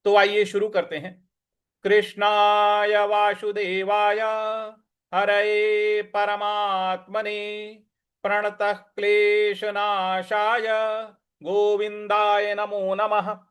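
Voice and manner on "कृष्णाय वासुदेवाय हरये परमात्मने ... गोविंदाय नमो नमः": slow, reverent chanted prayer; devotional invocation. Acted.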